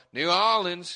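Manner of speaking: loud, drawn-out "New Orleans" in mock local accent; exaggerated local pronunciation. Mocking how locals say it, exaggerated "New Orleans". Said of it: "So does that mean then every time".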